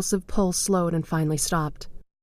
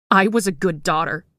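sobbing; 4 dB louder than usual. A narrator's reading. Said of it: "she sobbed".

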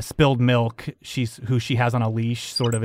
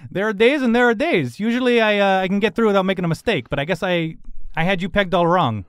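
put-on lightly raised old lady voice; chatty elderly woman; 5 semitones higher than usual. Elderly woman admitting a misjudgement, lightly high and chatty. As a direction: ramble it off, conceding.

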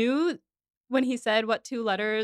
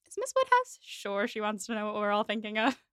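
dry Knightley voice. Retold or imitated. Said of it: "Knightley's like".

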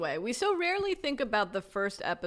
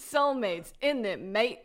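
bad British accent; slower than usual. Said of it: "That's the worst accent I've ever heard".

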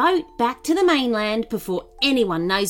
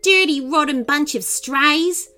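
higher, scornful character scolding; snapping; 7 semitones higher than usual. A narrator's reading. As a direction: spit insults at a pack of strays. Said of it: "she snapped".

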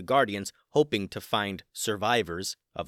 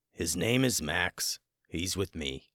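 low, slow, steady dragon; 4 semitones lower, 3 dB quieter than usual. Acted. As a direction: speak like a calm old dragon. Gray Dragon vouches for Max.

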